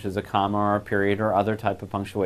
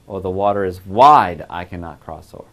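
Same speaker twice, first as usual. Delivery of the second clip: "wide" punched louder, the rest falling away; stress on WIDE; 4 semitones lower, 7 dB louder than usual. Shown as a demonstration. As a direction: hit "wide" as the key word, then drop off. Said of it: "that could change this".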